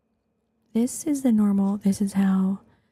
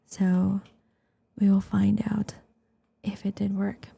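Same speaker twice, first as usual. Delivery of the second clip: ASMR whisper. Real, not acted. Streamer explaining the late start, whispering.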